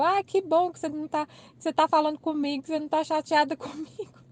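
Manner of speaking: high-pitched re-enacted relief with a laugh; playful, relieved sing-out to a friend; relieved delight. Voices own relief to colleague.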